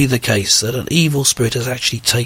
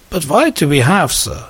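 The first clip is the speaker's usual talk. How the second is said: put-on higher-pitched comic German accent; 4 semitones higher than usual. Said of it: "this is my brilliant German accent".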